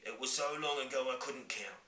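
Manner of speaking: giant voice. Acted. Giant replies.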